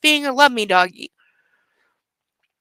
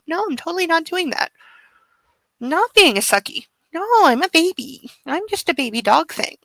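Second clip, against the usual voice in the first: lightly voiced pleading puppy; sleepy puppy. Owner voices her sleepy puppy begging for cuddles, lightly pleading. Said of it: "he's going, Mommy".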